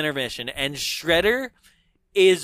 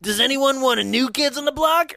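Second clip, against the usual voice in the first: Shredder taunting crowd; 7 semitones higher than usual. Retold or imitated. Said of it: "And then he goes".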